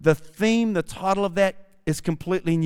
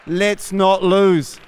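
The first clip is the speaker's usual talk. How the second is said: slow quote; 5 dB louder, much slower than usual. Retold or imitated. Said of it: "That was my".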